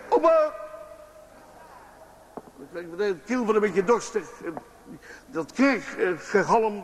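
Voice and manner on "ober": sharp, high call to the waiter. Retold or imitated. Father on the balcony calling a waiter, loud call.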